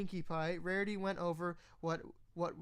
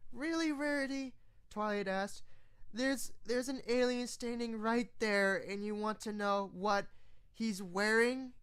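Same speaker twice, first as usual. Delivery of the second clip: higher, lightly voiced pony, a touch irritated; exasperated at her friend's priorities; a hint of an annoyed higher pony voice; mildly annoyed Twilight; 4 semitones higher than usual. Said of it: "a little annoyed with her friend".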